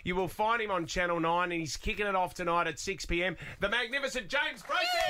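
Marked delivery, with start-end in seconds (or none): 3.6-5.1 announcer intro. Acted. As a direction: build him up like a ring announcer. Radio host introduces the guest.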